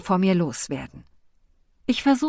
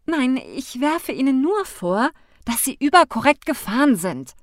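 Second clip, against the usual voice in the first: defiant jab; 6 semitones higher, 4 dB louder than usual. A narrator's reading. She snaps back at driver.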